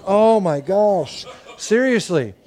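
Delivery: drawn-out, retold dismay; exasperated disbelief. Dad told of another shot tomorrow, acted exasperation. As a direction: stretch it out in weary disbelief.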